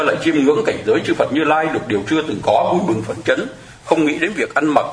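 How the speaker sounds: chanting-like recitation of a Buddhist text; sutra reading. Acted. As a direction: read the sutra text out with reverence. Reads sutra passage aloud.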